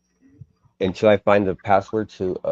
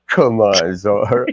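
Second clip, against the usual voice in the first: imitating posh accent; slower than usual. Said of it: "with the posh accent".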